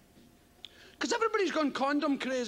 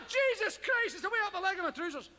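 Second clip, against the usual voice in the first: panicked thought; 6 semitones higher, faster than usual. Retold or imitated. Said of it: "I thought".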